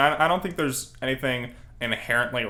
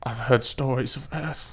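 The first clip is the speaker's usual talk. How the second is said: awkward puberty voice. Retold or imitated. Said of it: "in his extremely awkward puberty voice".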